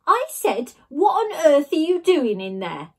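loud, high shout through a door. A narrator's reading. Girl shouting at Ned through the door, loud. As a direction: yell through the bathroom door.

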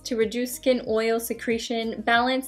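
talking behind hard face mask; speaking through face mask. Real, not acted. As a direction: voice under face shield. Seen 0: Glowing LED mask covers face and is held on; mouth opening visible.

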